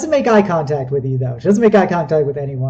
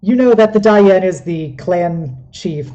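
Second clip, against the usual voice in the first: ordinary talk, nothing marked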